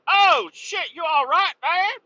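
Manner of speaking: high, loud alarmed call; retold yell of concern; mock alarmed shout. Asking the hit driver if he's okay, mock alarmed shout. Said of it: "I'm like".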